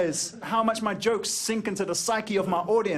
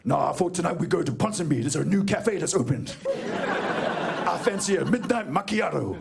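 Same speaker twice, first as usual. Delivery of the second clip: posh gang member. Retold or imitated.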